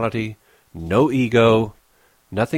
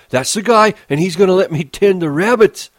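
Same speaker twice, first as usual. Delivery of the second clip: higher, louder eager happy voice; 10 semitones higher, 7 dB louder than usual. Acted. Lenny tells Curly's wife about George, happily. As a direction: beam with childlike pride. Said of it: "Lenny smiled happily".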